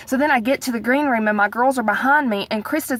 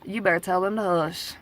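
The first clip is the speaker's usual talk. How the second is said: low-volume, annoyed mock order; contained anger; 3 semitones lower, 4 dB quieter than usual. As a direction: retell a cross order, kept down. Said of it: "Oh, I was mad".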